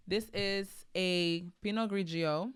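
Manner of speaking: put-on slow, playful Italian accent on the wine name; hammed-up Italian accent. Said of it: "that's my little Italian accent".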